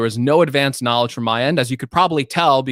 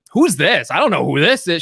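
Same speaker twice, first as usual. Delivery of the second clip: mock feigned ignorance; 3 semitones higher than usual. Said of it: "should I be like".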